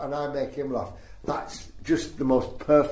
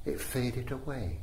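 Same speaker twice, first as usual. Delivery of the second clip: last words barely voiced, fading to almost nothing; mouthed last line; 9 dB quieter, slower than usual. The speaker reciting the joke poem to the driver, mouthing the end. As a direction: let it die away to a mouthed whisper. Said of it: "the last line is just mouthed".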